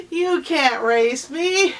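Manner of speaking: loud, high, slow taunt; scoffing rabbit. Acted. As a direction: drag it out to belittle him.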